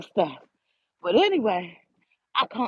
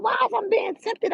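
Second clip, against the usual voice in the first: mock bewildered; 13 semitones higher than usual. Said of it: "I was like".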